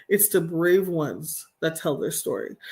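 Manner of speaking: slow, deliberate restatement; emphatic repeat. Real, not acted. Speaker repeating her point to listeners, slowly and deliberately. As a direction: spell it out slowly for them. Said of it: "I'm gonna say that again".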